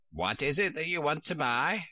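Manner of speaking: put-on bleating-style old Sheep question. A narrator's reading. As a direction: ask like an old sheep shopkeeper.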